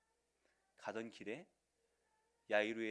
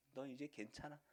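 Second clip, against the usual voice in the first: soft whisper; 13 dB quieter than usual. Acted. Parent soothing newborn.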